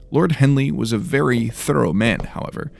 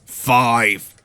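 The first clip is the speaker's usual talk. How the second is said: louder, gruff steward counting; 2 semitones higher, 5 dB louder than usual. Acted. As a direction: count down as a threat. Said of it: "the Orden's gruff voice".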